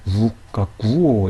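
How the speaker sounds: 우, 까, 꾸, 오 sounded out carefully; kk starts syllable. Shown as a demonstration. Teacher shows how to read it, careful syllables 우, 까, 꾸, 오. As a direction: put the tense kk of 까 at the syllable start. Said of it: "이렇게 읽으면 되는 것이고요".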